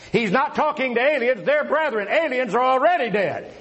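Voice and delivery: emphatic pulpit argument; forceful preaching. Real, not acted. Debater explaining who will die in the passage, forceful preaching. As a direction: hammer out each point to the congregation.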